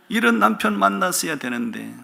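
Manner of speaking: high-pitched wistful sigh of a wife, after a chuckle; playful lament. Shown as a demonstration. Repeats it as playful wifely lament. (높은 톤으로 장난스럽게 아쉬워하듯)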